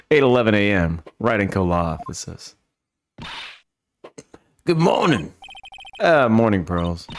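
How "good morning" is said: put-on high, sing-out little-girl voice; child's greeting. Pearl greets Nick in the office, high childlike voice. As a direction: pitch it up like an eager child.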